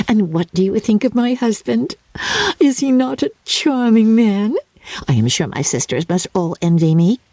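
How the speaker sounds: put-on high, breathless chatter of a silly girl; Lydia, giddy young bride. Lydia boasting to her family, high and giddy. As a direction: gush it out like a spoilt bride.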